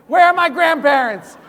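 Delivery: furious high-pitched action-hero shout; yelling. Acted. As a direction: bellow it at the man you have pinned down. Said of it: "I'm yelling at him".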